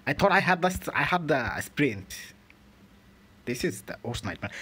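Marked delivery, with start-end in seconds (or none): 0.1-2.1 loud, high indignant complaint; loud frustrated cry; outraged. Real, not acted. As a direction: shout your disbelief at the game. Outraged at game controls.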